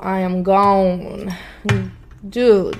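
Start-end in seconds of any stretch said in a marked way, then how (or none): 0.1-1.3 slow emphatic sign-off; slow, drawn out. Acted. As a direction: stretch each word slowly. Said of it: "stretched emphatic exit".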